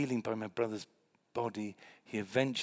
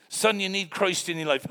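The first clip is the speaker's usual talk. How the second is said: kindly pastor; 7 semitones higher, 9 dB louder than usual. Retold or imitated. Pastor voiced.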